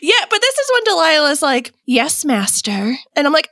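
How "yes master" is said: obedient servant voice. Pretend. Acted obedient clone.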